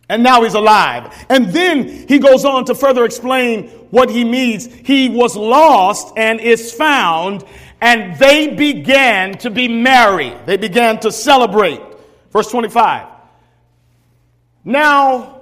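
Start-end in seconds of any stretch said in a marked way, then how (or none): 4.7-10.3 slow scripture reading. Acted. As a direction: read the verse slowly and solemnly.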